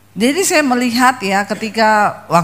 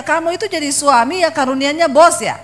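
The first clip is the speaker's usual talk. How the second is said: higher, heated scolding of husband; raised, indignant rebuke, quickening at the end; retold yelling back; 5 semitones higher than usual. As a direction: scold him like you've had enough. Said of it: "saya juga teriak sama dia".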